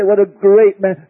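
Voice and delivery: mock the proud claim; mock self-praise. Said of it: "triumph and say".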